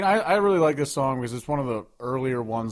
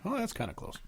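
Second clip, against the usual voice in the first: much higher, softer jokey squeak; squeaky joke; 11 semitones higher, 9 dB quieter than usual. Real, not acted. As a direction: pipe it up high as a joke. Joking self-deprecation.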